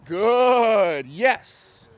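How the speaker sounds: dog praise. Real, not acted. Trainer praising the dog for walking right, high excited praise. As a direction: reward the dog with your voice. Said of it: "What's yes mean?".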